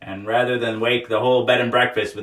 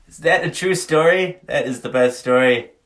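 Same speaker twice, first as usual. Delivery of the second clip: louder, higher delighted reaction; 4 semitones higher, 5 dB louder than usual. Real, not acted. Reacting to a listener's story, delighted. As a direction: gush over the story.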